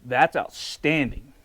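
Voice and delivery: delighted verdict. Real, not acted. Tasting the stew for viewers, slow loud delighted praise. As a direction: savour each word of the verdict.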